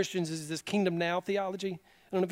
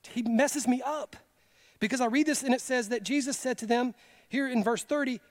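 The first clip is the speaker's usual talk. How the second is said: normal talking voice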